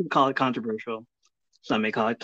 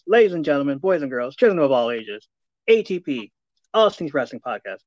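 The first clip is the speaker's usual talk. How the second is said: ringmaster. Acted. Announcer intro of co-host.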